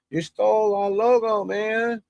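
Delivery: high, lightly put-on Asian accent; mock accent, accusing the streamer of stealing the logo. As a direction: imitate an accusing Asian businessman, a bit high. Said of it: "No offense to the Asians".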